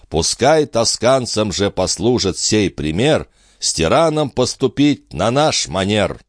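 measured declamation with lifted pitch; lightly heightened stage verse, phrase by phrase; verse recitation. A narrator's reading. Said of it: "он дошёл до следующих стихов". (торжественно декламировать стихи)

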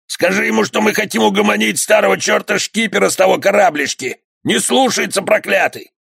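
bandit's reply. Acted. Bandit answers shout.

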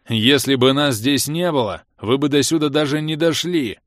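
loud, forceful growl; growled retort. A narrator's reading. Bars snaps back at the accusers, growling loudly. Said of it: "рыкнул Алый Барс".

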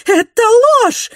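very high, loud scream of denial; outraged shriek; outraged cry. A narrator's reading. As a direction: shout it down. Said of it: "вскричала миссис Гленнорм".

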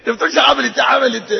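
mock outrage. Shouting mock.

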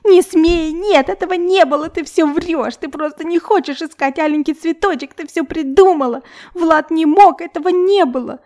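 put-on a little girl screaming at her adult self, hysterical; shrieking child. A narrator's reading. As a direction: shriek in denial, stamping your feet. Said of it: "завизжала на неё и затопала".

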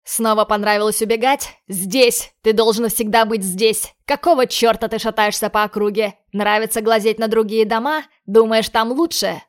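loud furious yelling; angry shouting. Acted. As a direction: shout him down in rage. Father figure beating boy.

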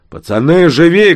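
high, loud yell, out of breath; breathless shout. A narrator's reading. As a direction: yell at the lads while running out of breath. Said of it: "крикнул он, задыхаясь". (крик на бегу, задыхаясь)

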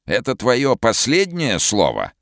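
high, slow, sinister booming voice; sinister other voice. Acted. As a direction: let a menacing stranger speak through him. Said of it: "другим зловещим голосом".

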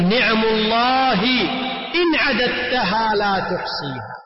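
slow recitation. Shown as a demonstration. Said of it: "فأنت تقول".

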